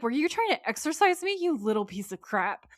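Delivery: high, loud acted indignation, dropping on the insult; outraged. Demon Nora catching Gary trying to exorcise her, outraged. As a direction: confront him in mock outrage.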